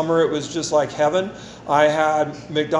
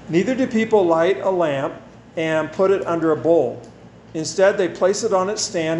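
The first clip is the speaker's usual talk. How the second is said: scripture reading. Acted. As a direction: read the verses out to the congregation. Reads scripture passage aloud.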